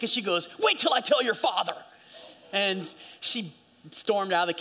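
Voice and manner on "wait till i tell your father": higher-pitched retold outburst from an angry mom; mock threat, pitched up. Mom storming in the kitchen at her child, mock angry. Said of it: "she just threw everything into the sink".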